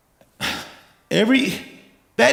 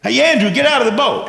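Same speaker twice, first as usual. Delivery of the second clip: higher, hurried aside to a friend; urgent calling out; 4 semitones higher than usual. Acted. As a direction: call impatiently to someone in a boat. Peter calls aside to Andrew.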